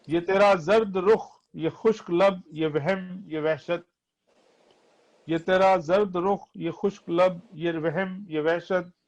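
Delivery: poetry recitation. Acted. Reciting nazm verses.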